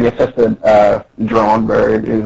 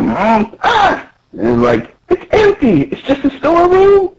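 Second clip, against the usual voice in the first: high character voice; 12 semitones higher than usual. Retold or imitated. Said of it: "He said".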